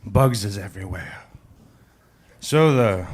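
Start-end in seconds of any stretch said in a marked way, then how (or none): 0.1-1.2 lightly acted French accent; French-accented lady, understated. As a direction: put on a French accent for a joke. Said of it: "The young French lady says".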